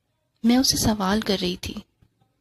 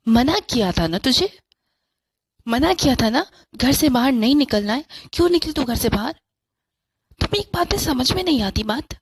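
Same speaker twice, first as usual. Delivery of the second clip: scolding mother; 5 dB louder than usual. Acted.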